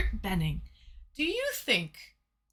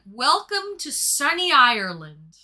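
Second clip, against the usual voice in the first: slow, louder imitation of a captain's welcome; captain's announcement; 4 dB louder, slower than usual. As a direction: play the captain greeting the passengers, drawn out. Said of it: "the captain said".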